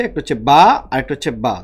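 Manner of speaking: each বা said as its own long syllable. Shown as a demonstration. Teacher shows students two syllables, split apart. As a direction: count off বা and বা separately. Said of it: "তাহলে কয়টা অক্ষর আছে".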